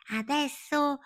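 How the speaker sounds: very high, long-drawn excited call; carried away with enthusiasm. A narrator's reading. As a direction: stretch it out like a leap. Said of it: "presa dall'entusiasmo".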